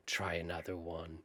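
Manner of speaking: low, soft, understated computer voice; calm computer. Retold or imitated. Imitating the chess computer after a blunder, very calm. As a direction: deliver it quietly, unbothered, like a machine. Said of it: "very calmly saying".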